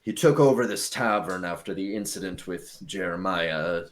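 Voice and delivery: measured, deliberate elf voice; storied old elf. Acted. Elf tells the party about the tavern owner, measured and formal. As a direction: explain it with formal weight.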